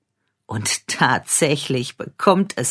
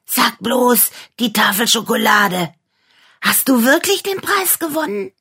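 high, loud amazed squeal; 10 semitones higher, 4 dB louder than usual. Acted. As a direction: gasp out in disbelief. Dog amazed at the prize.

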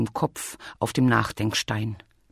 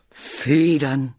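louder, delighted outburst; excited realisation; 4 dB louder than usual. Acted. Bear hits on feathers, excited. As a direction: burst out with the idea. Bear has a sudden idea.

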